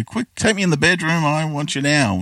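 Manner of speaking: high, breathless-sounding mock seduction; Joy's mock passion. Ex-wife acting keen for her parents, high hammed-up urgency. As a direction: ham up the eager wife pulling him to the bedroom. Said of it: "jumps on him and sort of gives him kisses".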